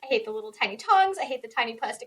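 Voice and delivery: exasperated, giggly venting; laughing rant. Real, not acted. Parent venting about the game Operation, laughing rant. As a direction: rattle off grievances, breaking into laughter.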